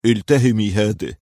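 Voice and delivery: mildly tender urging; understated caring offer. A narrator's reading. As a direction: coax with a touch of affection. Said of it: "وهو يقول في حنان".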